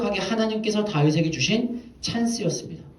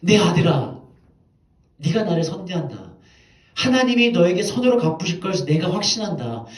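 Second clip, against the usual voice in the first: Saul weeping plea; 4 semitones higher, 4 dB louder than usual. Retold or imitated. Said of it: "울면서, 통곡하면서".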